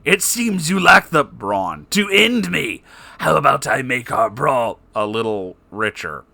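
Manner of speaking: lightly voiced smug villain; gloating villain. Spamton taunting Garfield, a mild villain gloat. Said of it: "said Spamton G Spamton".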